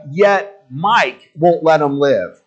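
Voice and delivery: slow, weighty "Yet Mike"; drawn-out mock pronouncement; mock slow verdict. Shown as a demonstration. Preacher recasting the verdict as a person's name, slowly. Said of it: "it's like".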